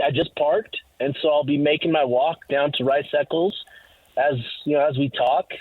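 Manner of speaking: a little winded while walking; talking while walking to the stadium; out of breath. Real, not acted. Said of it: "So if I'm out of breath".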